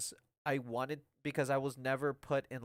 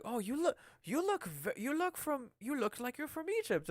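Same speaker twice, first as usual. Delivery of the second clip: higher-pitched voice, haltingly finding the words; imitated woman customer; 10 semitones higher than usual. Voices the female customer in story.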